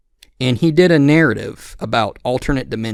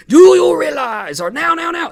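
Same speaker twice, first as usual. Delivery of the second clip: Chris Chan; 8 dB louder than usual. Acted. Podcaster mimicking a man like Chris Chan, high mocking impression. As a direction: squawk it out high, mocking impersonation. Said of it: "this impression of him, again, it's like Chris Chan".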